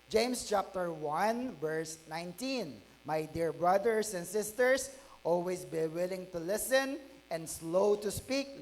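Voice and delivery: slow, measured reading of the verse; scripture reading. Acted. Pastor reading the verse to the congregation, slow and measured. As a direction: read the verse slowly and deliberately.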